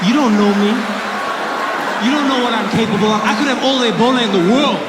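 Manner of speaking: loud, high fake threat, chest puffed; mock menacing shout. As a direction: bellow it like a cartoon villain.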